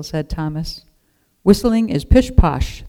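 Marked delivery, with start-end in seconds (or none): 1.4-2.8 loud, slow gruff dismissal. A narrator's reading. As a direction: scoff it out gruffly, slowly. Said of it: "the woodcarver said gruffly".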